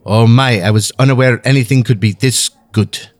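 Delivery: lightly done suave Bond villain. Pretend. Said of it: "Sounds like a secondary villain in a bad Bond movie".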